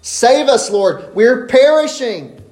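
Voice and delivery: high, loud frantic cry for help; panicked plea. Retold or imitated. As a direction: beg like men about to drown. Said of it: "and they're panicked".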